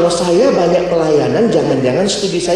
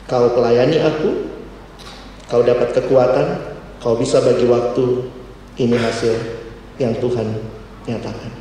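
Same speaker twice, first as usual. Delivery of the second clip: voiced God; 5 semitones lower, 4 dB quieter than usual. Voices God speaking to him.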